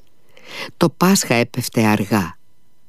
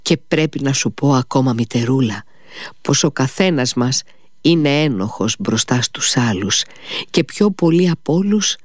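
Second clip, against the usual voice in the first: higher, rising ardour, fading at the end; fervent son; 4 semitones higher than usual. Acted. Dying son passionately explains to his mother, raised voice. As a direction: build with conviction then drop.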